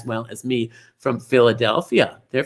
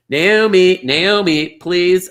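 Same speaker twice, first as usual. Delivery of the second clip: calling out; 5 semitones higher, 5 dB louder, much slower than usual. Real, not acted. Host calls helper onto set.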